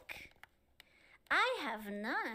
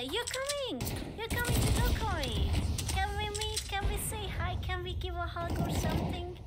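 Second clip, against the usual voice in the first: higher, eager questions tumbling out; excited pleading; 5 semitones higher than usual. Real, not acted. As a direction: beg to meet up, bright and keen. Excited invitation to fan meetup.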